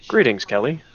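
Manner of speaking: monotone robotic voice; flat, even robot voice. Acted. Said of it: "kinda monotone robotic voice".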